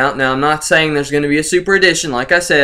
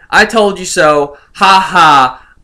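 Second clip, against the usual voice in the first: smug gloat; 3 dB louder, slower than usual. Acted. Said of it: "this is where I say".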